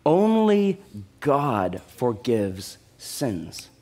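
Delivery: ONLY GOD drawn out low and slow; preacher driving the key point home; slow emphatic stress. Acted. Sermon point hammered home.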